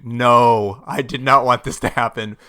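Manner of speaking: mild mock yell, loud on the No; a toned-down cry of dismay; retold scream. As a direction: re-enact a scream of protest at reduced force. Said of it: "I literally screamed".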